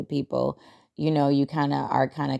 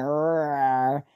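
Hulk growl. Retold or imitated. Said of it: "when the Hulk comes out".

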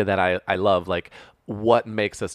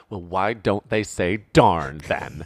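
slow, lightly voiced mom; drawn-out hint of a puzzled mother; 3 semitones lower, slower than usual. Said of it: "this is my mom voice for today".

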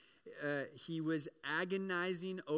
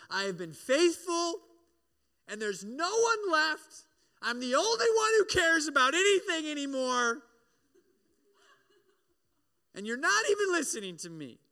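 higher, louder overwrought complaint; dramatic Elijah; 10 semitones higher, 7 dB louder than usual. Retold or imitated. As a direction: ham up Elijah's self-pity. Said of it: "the most dramatic emo thing".

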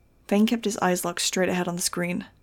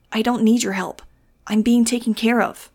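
loud, raised defiant cry; higher, louder refusal of help; shouting; 3 semitones higher, 6 dB louder than usual. A narrator's reading. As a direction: shout it back over your shoulder. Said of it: "he shouted over his shoulder".

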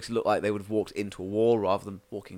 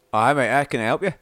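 friendly investigator; 4 semitones higher, 8 dB louder than usual. Acted. GM voices investigator.

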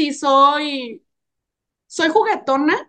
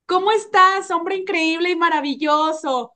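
sweet friendly greeting; 3 semitones higher than usual. Retold or imitated. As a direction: greet him like a dear brother. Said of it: "Si le digo". (saludo cariñoso y amistoso)

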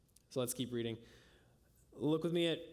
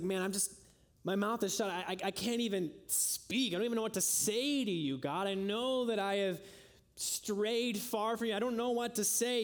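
pleading sinner's prayer; 5 semitones higher than usual. Retold or imitated. Voicing a sinner's broken prayer.

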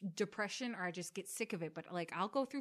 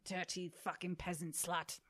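Ramsay rant; 6 dB louder than usual. Pretend. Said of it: "I don't even think he sounds like that".

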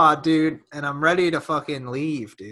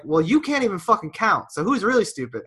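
higher-pitched, indignant mock retort; retold angry comeback; 6 semitones higher, 3 dB louder than usual. Man answering rude shopper in retold quarrel, indignant. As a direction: re-enact a cutting comeback.

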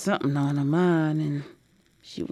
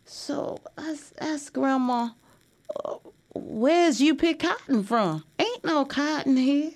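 put-on higher, quick little-girl voice; a young child asking questions, pitched up; 8 semitones higher than usual. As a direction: voice the curious young granddaughter. Granddaughter voiced asking about cotton.

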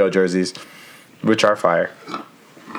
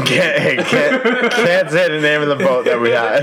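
laughter turning nervous; 5 semitones higher, slower than usual. Real, not acted. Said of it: "Nervous laughter".

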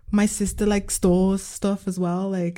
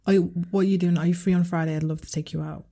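soft suggestion; 5 semitones lower, 6 dB quieter, faster than usual. Shown as a demonstration. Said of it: "I think just lead with".

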